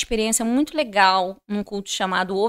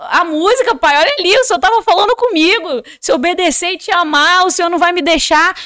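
fervent prayer; 7 semitones higher, 7 dB louder than usual. Retold or imitated. Retold desperate prayer to God.

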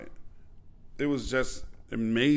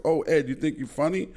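higher teasing Tyson voice; Mike Tyson voice; 6 semitones higher, 4 dB louder than usual. Retold or imitated. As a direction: tease like Tyson, pitched up. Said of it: "So Mike goes".

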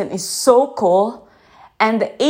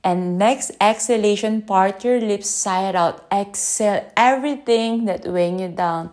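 guided breathing. Acted. Host guiding listeners through a breath, calm guidance voice. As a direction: lead the listener gently through the exhale.

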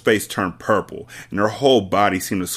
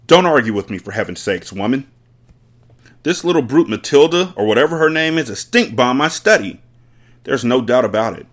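a hint of a domineering headmistress, louder; bullying headmistress; 4 semitones higher, 5 dB louder than usual. Headmistress berating Miss Honey, loud and domineering. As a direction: lay down the law, no room for argument.

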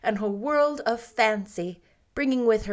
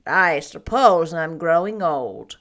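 Marilla voice; 4 semitones lower, 6 dB louder than usual. A narrator's reading.

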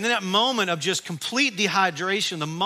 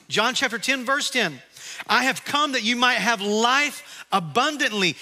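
raised-pitch preacher's recitation; emphatic scripture reading; 4 semitones higher than usual. Acted. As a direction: proclaim each verse to the congregation. Preacher declaims a run of verses.

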